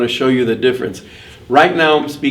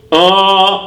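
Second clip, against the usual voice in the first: open nose; 8 semitones higher, 7 dB louder than usual. Shown as a demonstration. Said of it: "It's open".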